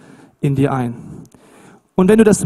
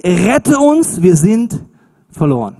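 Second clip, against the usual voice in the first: verzweifelter Schrei; 3 dB louder, slower than usual. Retold or imitated. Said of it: "schrien sie".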